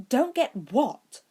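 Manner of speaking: ask, caught off guard; puzzled question. A narrator's reading. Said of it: "Hermione asked".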